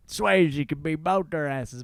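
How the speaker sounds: slow, jokey mock fan; ironic head voice. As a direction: drawl it as an ironic imitation. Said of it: "using the voice in their heads".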